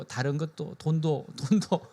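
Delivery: soft, slow sheepish add-on; small voice. Retold or imitated. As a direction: slip it in quietly, as an afterthought. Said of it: "작은 소리로". (작은 소리로 슬쩍 덧붙이듯)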